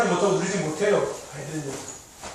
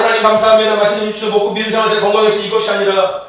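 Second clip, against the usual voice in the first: prayer demo; 9 dB louder than usual. Shown as a demonstration. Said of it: "식기도할 때 그냥".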